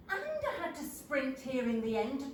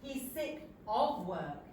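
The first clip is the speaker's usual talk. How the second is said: slow, clearly separated "sick of work"; correcting, with a distinct "of"; speaking up slightly; slower than usual. A narrator's reading. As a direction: spell out "of" in "sick of work", slowly. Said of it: "speaks up a little".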